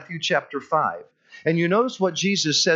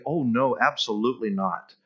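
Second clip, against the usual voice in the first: teasing the skeptic, then pushing them to give more; playing along. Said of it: "I'll play along with him and I'll say".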